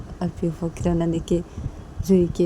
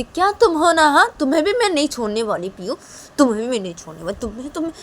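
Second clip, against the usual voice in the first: higher, louder, fast threat; menacing threat; 8 semitones higher, 6 dB louder, faster than usual. Acted. Mother threatens Piyu she won't spare him, angry.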